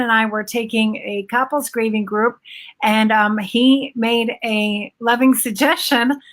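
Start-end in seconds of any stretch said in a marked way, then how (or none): 5.0-6.2 lightly ironic, lingering on the phrase; sarcastic. Retold or imitated. Wife retelling husband's remark to grieving moms, mildly sarcastic. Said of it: "I say that sarcastically".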